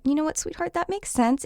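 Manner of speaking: gentle, sympathetic reassurance; validating parent. Retold or imitated. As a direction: soothe a child with lifted pitch. Voicing parent validating scared child.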